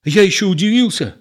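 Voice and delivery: high, puzzled voice; explain, flustered and lost; bewildered. A narrator's reading. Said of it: "растерянно говорил Егор".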